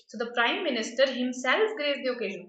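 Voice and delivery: weight on himself to show its emphatic use; stress on himself. Shown as a demonstration. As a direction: lean on himself to make the point. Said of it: "I'm just emphasizing".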